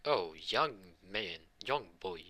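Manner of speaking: slow, drawn-out greeting; lightly acted hero addressing a child; hero greeting baby. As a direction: stretch the words out for a baby. All Might greets the baby.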